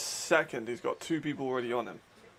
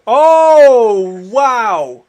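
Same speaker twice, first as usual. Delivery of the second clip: high shriek of disbelief, laughing; shrieking jackpot winner; 7 semitones higher, 16 dB louder, much slower than usual. Real, not acted. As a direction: scream it like you just won. Stunned by a sudden interception.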